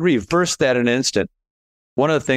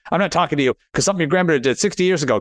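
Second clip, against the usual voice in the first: rushed, higher mock huffy relative brushing him off; angry relative; 5 semitones higher, much faster than usual. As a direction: rattle it off fast like a grudge-holding relative. Estranged relative hangs up on him.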